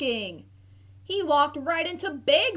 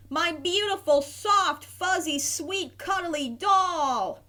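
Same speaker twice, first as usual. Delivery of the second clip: higher, joyful gushing over each word, slowing at the end; happy gushing; 6 semitones higher than usual. A narrator's reading. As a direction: gush over the found toy. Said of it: "yelled Harry happily".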